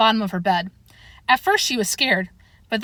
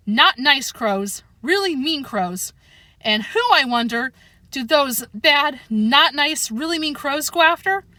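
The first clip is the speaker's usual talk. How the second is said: ominous slow; 5 semitones higher, slower than usual. Acted. Chester drawing it out ominously.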